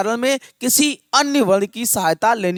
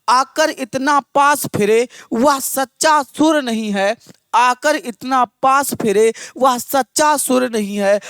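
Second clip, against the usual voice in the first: measured, rhythmic verse recital; lilting Hindi verse delivery; poem recitation; slower than usual. Acted. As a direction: recite rousing couplets line by line, repeating them. Recites verse to open the class.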